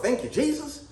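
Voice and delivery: sarcastic imitation of the thankful lady; mocking. Teller mocks the ungrateful lady's thanks, lightly. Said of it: "all you talking about".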